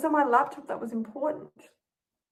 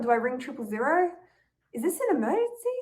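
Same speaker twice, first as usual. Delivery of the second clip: anxious rush; 2 semitones higher than usual. Acted. Panicked self-question.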